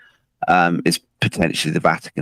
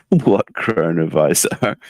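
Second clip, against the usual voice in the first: feigned ignorance; slower than usual. Acted. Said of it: "the Vatican say".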